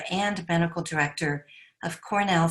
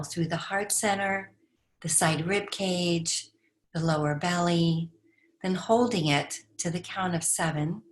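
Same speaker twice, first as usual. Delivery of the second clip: calm, measured breathing instruction with long pauses; guided meditation. Acted. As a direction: guide listeners unhurriedly through each breath.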